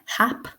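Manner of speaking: hap said by itself with a clear H; stressed syllable alone. Shown as a demonstration. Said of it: "the first syllable is stressed".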